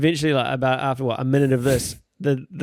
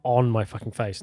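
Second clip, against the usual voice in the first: scared whisper; 4 semitones lower, 5 dB quieter than usual. Retold or imitated. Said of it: "they were like".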